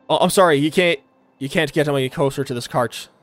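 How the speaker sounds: lightly put-on Australian guard; apologetic guard in a light Australian accent. Guard turning players away from the cart, Australian accent. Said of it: "the Australian I was doing before".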